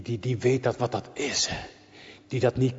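usual speaking voice

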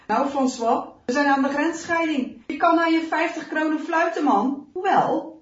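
loud, mocking comrade; scoffing soldier. A narrator's reading. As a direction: taunt him about the lost reward. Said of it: "lacht schamper".

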